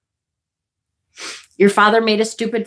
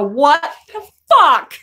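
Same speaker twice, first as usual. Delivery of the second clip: retold exasperated outburst; 3 semitones higher, slower than usual. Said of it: "taking everything I have not to go".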